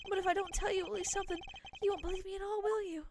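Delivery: lightly voiced kidnap witness; a hint of character voice, rising into earnest pleading; trial character voice. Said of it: "what kind of a voice I should give him".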